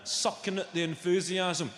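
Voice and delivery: usual speaking voice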